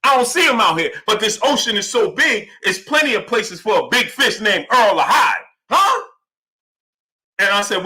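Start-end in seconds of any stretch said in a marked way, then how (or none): 0.0-6.0 a touch higher, hammed-up taunt; mock fighter's taunt. Streamer retelling the fighter's taunt at Earl, lightly hammed-up. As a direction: keep up the playful callout voice. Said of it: "he ain't say it like this, though".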